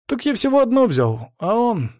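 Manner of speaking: put-on high-pitched boyish excuse; flustered boy. A narrator's reading. Boy excuses taking an apple, flustered high voice. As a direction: protest high like an embarrassed kid. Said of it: "смутился пацан".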